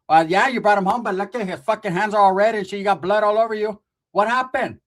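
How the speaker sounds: a hint of a loud aunt; scolding aunt. Aunt scolding the nephews, lightly voiced. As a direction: scold the two boys.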